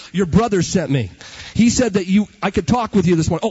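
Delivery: loud, fast salesman devil pitch; hammed-up devil knocking; devil at the door. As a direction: bark it like a pushy caller at the door.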